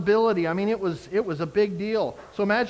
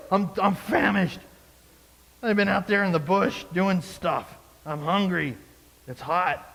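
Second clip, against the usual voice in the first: dramatic Esau. Retold or imitated. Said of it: "You're just being a little dramatic".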